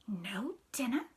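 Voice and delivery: put-on small hushed child's question; tiny whispered voice. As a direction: breathe it out in a little voice. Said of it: "She said that in a little voice too".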